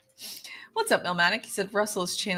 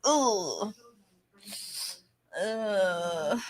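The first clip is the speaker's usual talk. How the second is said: disgusted groan. Real, not acted. Creeped out by exorcism.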